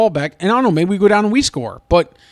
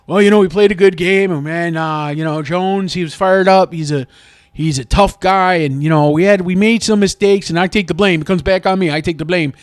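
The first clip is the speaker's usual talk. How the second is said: lightly voiced bland coach at a press conference, a bit louder; a hint of the coach shrugging off the loss; mocking coach Duvall; 4 dB louder than usual. Fan mimics coach's press conference, mild mock. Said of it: "he comes out and he's kinda like".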